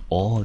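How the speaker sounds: 单独念出O音; 示范O这个音节的读法; 音节示范. Shown as a demonstration. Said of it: "我们念成O的音". (单独示范O的发音)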